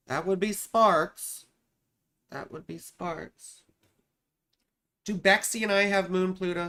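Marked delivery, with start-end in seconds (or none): 0.1-1.5 playful flirt. Pretend. First flirty take. 2.3-3.6 slow, much softer teasing echo; soft flirty repeat. Pretend. Repeats the flirty line softly.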